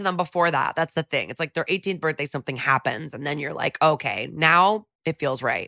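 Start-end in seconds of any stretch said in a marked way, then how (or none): 3.8-5.7 sarcastic quote. Retold or imitated. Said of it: "I'm being very sarcastic".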